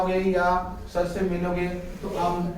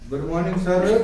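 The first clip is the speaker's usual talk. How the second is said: louder "गुड मॉर्निंग सर" with full r in "सर"; full greeting; 4 dB louder than usual. Shown as a demonstration. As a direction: greet clearly and fully. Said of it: "एक तो इस तरह बोले". (ज़ोर से पूरा "गुड मॉर्निंग सर")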